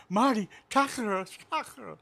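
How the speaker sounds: high, loud mock Latin accent; screaming ladies in a bad Latin accent. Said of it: "is that the best Latin accent you got?".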